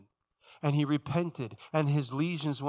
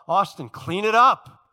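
loud, raised, drawn-out reprimand; parent calling out; 7 semitones higher, 10 dB louder, slower than usual. Acted. Father telling his son off down the hall, calling out. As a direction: call it down the hall, slowly and firmly.

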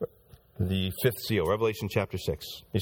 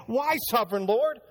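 lightly voiced aggrieved martyrs, higher pitch; martyrs complaining; 3 semitones higher than usual. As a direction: plead why with a touch of hurt. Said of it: "these souls under the altars could have said that".

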